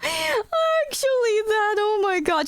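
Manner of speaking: high, squeezed voice after laughing; slow, high words on leftover laughter; wheezing after laughter. Real, not acted. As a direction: recover from a real wheezing laugh. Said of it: "literal wheeze moment".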